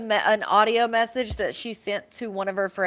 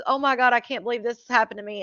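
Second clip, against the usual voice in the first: rattled off fast in a mock whine; faster than usual. Mocking her self-pitying message, quick and dismissive.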